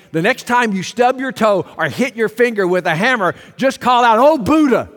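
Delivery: playful mock exclamation; sarcastic suggestion. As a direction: tease the crowd, then cry it out. Sarcastic suggestion, rising to a shout.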